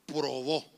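"Probó" with the accent on the last syllable, said low; stress on final Ó. Shown as a demonstration. Pastor spelling out a word while writing, final-stressed "Probó". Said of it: "con acento en la ova".

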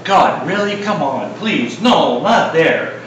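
lightly voiced frightened Ananias pleading; protesting Ananias. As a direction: whine and bargain with God. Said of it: "He's sitting there going".

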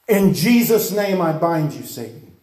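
commanding, fading to a voiceless Satan; a preacher binding the devil; rebuking Satan. Retold or imitated. Preacher casting out the demon.

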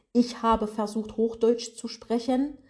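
careful, slow Hochdeutsch like a computer voice; robotic High German without the dialect; attempted High German. Shown as a demonstration. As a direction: try stiff standard German, over-concentrating on each word. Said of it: "es spricht eine Computerstimme".

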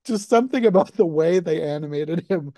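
talking through giggles; amused, laughing while talking. Real, not acted. Laughing over a funny scene.

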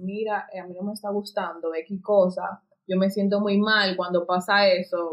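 más suave, tranquilo, sin pelear; calmado y sincero. Shown as a demonstration. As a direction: dilo con calma y sinceridad. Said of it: "no, puedes decir". (con calma, suave y sincero, sin pelear)

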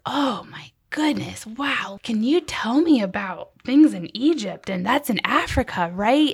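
lightly imitated wide-eyed wonder; slow, lilting curiosity of an impressed kid; a touch of awe, eager questions; amazed child retold. Retelling child's amazement at Egypt.

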